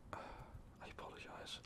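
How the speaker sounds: very soft, slow whisper; whispered apology. Acted. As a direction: barely get the apology out. Overwhelmed, apologizing after a shock.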